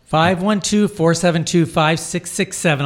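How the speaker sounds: slow, careful phone number; over enunciating. Shown as a demonstration. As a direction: spell out each digit slowly. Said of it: "I'll say it slower".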